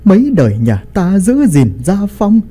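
put-on high, irate old patriarch berating his son; angry scolding. A narrator's reading. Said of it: "hầm hầm sắc mặt mà đập bàn quát tháo".

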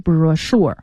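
brochure with ch said "sh", bro-SHURE. Shown as a demonstration. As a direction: say brochure with a sh sound. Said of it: "发诗的音". (brochure 中的 ch 读成 sh)

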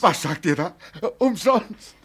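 can't believe his ears; astonished. Acted. Father stunned the dress is given for nothing, astonished.

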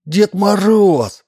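high, slow delighted cry; boy yelling in delight; excited shout. A narrator's reading. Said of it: "закричал Вова".

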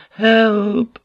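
very high, loud cry for help; crescendo of panic. A narrator's reading. Panicking prisoner calling out, terrified cry. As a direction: cry out in terror at the peak. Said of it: "Croak's voice started to crescendo".

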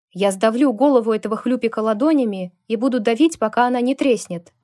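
loud barked threat; barking threat. Acted. Lukas roaring at Kevin while she holds him back, barked threat. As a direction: bark it out, ready to crush him. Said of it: "рявкнул Лукас".

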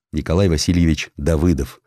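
ordinary delivery, nothing marked

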